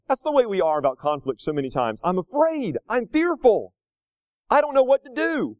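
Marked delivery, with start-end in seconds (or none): 2.0-5.6 mock fearful voice. Voicing a fearful believer.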